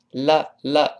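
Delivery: 啦 with a wide open mouth; 啦 said like Chinese la; wrong la. Shown as a demonstration. Teacher shows the wrong la for love. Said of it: "不要读啦".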